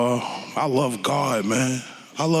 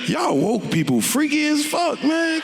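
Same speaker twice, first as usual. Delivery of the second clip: comic rant; 13 semitones higher than usual. Real, not acted. Ranting joke at woke people.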